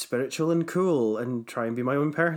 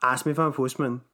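quick, broad Scottish brogue; cousin's punchline in a thick Scottish accent; faster than usual. Shown as a demonstration. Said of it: "shall I do it in my, like, thick accent?".

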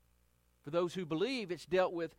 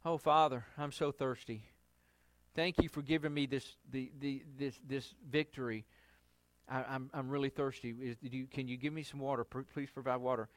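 humble request; 3 semitones lower than usual. Retold or imitated. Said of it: "instead of just asking for water".

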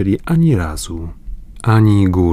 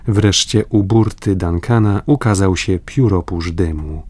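ordinary delivery, nothing marked

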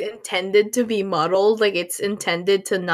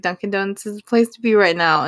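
put-on fast New York accent on Dunkin' Donuts; 2 semitones lower, faster than usual. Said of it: "like, in the New York accent".

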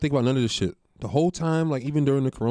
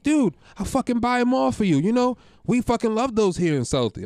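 Southie guy voice; 10 semitones higher than usual. Retold or imitated. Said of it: "He's like".

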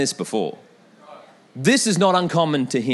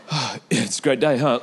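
mock casual bravado; 5 semitones lower than usual. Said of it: "trying to be a man".

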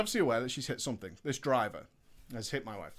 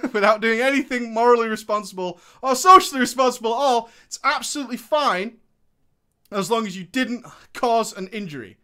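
louder, bitter sarcasm; sarcastic outrage; 5 semitones higher, 8 dB louder than usual. Real, not acted. Ranting to viewers about police rules, louder sarcasm. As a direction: spit out the injustice.

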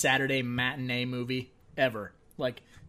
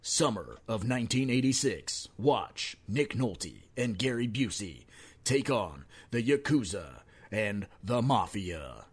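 movie trailer voice. Pretend. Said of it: "get my voice back on".

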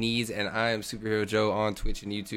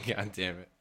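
laughing through pain; 4 semitones lower, 8 dB quieter than usual. Real, not acted. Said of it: "It hurts to laugh".

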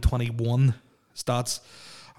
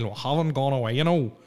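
a half-hearted Northern Irish political voice, barely shifted; Ray Adams impression; 3 semitones higher than usual. Podcaster mocks Ray Adams, saying the show never went away, in a weak Northern Irish accent. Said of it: "the worst Ray Adams accent impression".

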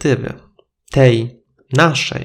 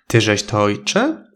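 surprised call; 4 semitones lower than usual. Acted. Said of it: "zdziwiony zawołał".

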